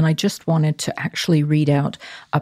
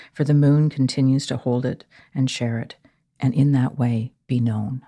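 poem reading. Acted. Reads a poem aloud.

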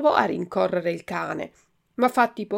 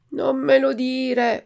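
grido lento, alto e forte; urlo; 6 semitones higher, 5 dB louder, slower than usual. A narrator's reading. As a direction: urla lentamente, ancora spaventato. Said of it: "urlò Pinocchio". (al cane salvatore, urlo lento e alto)

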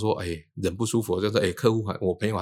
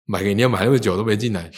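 买个饮料买那么久都没进来 louder, pressing the friend; complaining question; 5 dB louder than usual. Retold or imitated. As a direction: demand why he took so long. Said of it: "我就跟我朋友说，".

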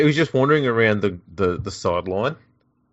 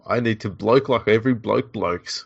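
hammed-up bloke pep talk; 3 dB louder, slower than usual. Mock actor psyching up as bloke.

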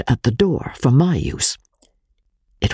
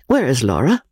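hushed question. Acted. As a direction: ask under the breath, nearly unvoiced. Walter asks quietly about wife.

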